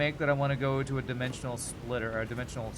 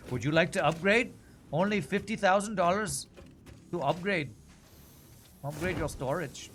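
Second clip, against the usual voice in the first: higher-pitched mock sales pitch; customer service voice; 5 semitones higher, 3 dB louder than usual. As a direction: put on a customer service upsell voice. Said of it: "I was doing my customer service voice".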